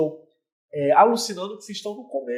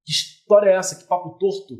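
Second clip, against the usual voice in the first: sharp, offended put-down; abrupt brush-off; 5 dB louder than usual. Shown as a demonstration. Woman abruptly shutting down a flirty guy, sharp. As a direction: cut him off bluntly, louder. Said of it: "você foi muito abrupta".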